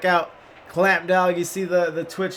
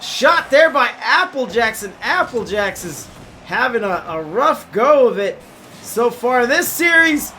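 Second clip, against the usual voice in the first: fast, rising sports commentary; live play-by-play. Acted. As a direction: call the game as it happens.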